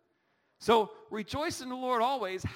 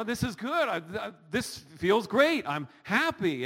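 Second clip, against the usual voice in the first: bright happy voice, louder; happy, upbeat; 6 dB louder than usual. Shown as a demonstration. Preacher acting out a joyful person, excited. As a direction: show what rejoicing sounds like. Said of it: "what are you picturing?".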